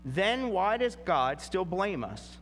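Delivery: measured, solemn reading of the passage aloud; preacher reading Scripture to the congregation, solemn. Acted. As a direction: read the verses with weight and care.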